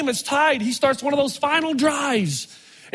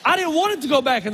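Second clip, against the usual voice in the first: still mad; 5 semitones higher than usual. Retold or imitated. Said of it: "I was so mad".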